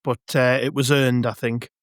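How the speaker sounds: hoarse, croaky from shouting. Real, not acted. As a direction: voice rough after a match of yelling. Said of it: "my voice is still a little bit croaky from the game".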